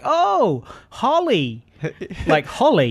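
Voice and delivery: high mock-delighted girl; girl mishearing. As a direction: imitate a girl's high "oh" of recognition. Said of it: "one girl was like".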